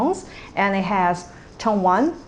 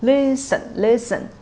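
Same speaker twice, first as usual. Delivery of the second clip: "listen" high on the first syllable, low on the second; high-low tone pattern; 3 semitones higher than usual. Shown as a demonstration. Teacher summing up tone one plus six, "listen" high then low. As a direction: step down within "listen". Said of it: "tone one plus tone six are like".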